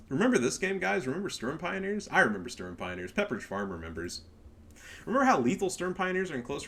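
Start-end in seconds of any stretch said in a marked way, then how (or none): 2.1-4.2 lower, dry Pepperidge Farm meme voice; deadpan meme voice. Retold or imitated. Answering his own question to viewers, lower deadpan meme voice. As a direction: answer your own question like the old commercial.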